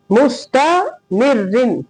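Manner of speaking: "मुस्तामिर रिन" with a light doubled r; thin ra. Shown as a demonstration. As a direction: keep the r fine in "मिर रिन". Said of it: "बारीक".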